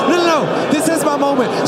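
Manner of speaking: high, loud protest; acted defiant cry at full volume; defiant insistence. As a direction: refuse to be shouted down. Beggar refuses to be silenced.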